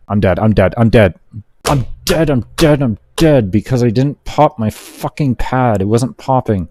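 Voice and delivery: high frustrated shouting after a wipe; real gamer rage. Real, not acted. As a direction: yell it out, mad at the game. Dies in game, real rage.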